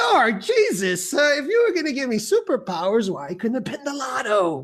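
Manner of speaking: comic pleading with the heavens; hammed-up aggrieved plea; mock prayer complaint. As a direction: appeal upward in exasperation.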